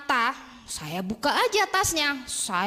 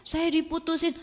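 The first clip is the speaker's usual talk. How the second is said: higher-pitched imitation of a tearful girl; mock crying; 5 semitones higher than usual. Student back with her teacher a week later, mock crying. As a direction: whimper it like a dumped student. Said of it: "loh, kenapa nangis".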